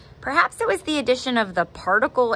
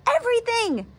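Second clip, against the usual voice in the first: mild alarmed cry. A narrator's reading. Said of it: "Dad gulped".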